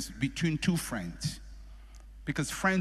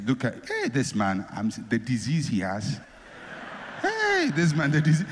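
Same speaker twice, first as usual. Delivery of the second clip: gossiping nurse. Retold or imitated. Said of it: "You don't leave the hospital and say".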